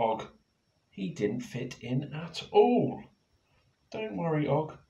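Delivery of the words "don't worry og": gently higher comfort; Penny comforts Og; reassuring. Acted. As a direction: cheer Og up. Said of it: "said Penny".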